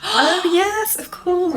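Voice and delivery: gasped surprise. Real, not acted. Gasping as news dawns.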